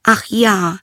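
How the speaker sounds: high, loud princess exclamation; high storybook princess; eager princess. Acted. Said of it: "sagte sie".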